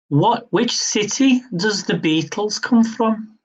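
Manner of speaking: hammed-up, half-hearted Liverpool accent; a mock Liverpool accent, badly done on purpose; terrible Liverpool accent attempt. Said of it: "I tried it in the accent".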